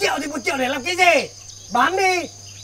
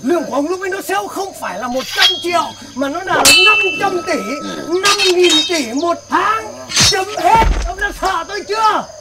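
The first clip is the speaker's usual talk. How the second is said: boastful bragging; 3 dB louder than usual. Acted. Rich man boasts louder.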